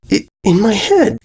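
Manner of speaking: high broken fright; sputtering. A narrator's reading. Diamond explains the crying she hears, sputtering. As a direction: spit the words out in panic. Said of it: "Diamond sputtered".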